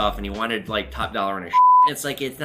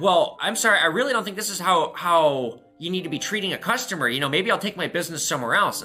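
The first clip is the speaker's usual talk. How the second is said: indignant customer; 4 semitones higher than usual. Retold or imitated. Angry customer scolding the shop owner, a touch huffy. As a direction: sound like a miffed customer threatening to leave. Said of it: "And then he's like".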